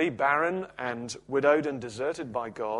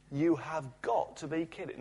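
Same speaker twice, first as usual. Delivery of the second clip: teasing woman; 3 semitones higher, 5 dB quieter than usual. Retold or imitated. Woman's teasing reply in story.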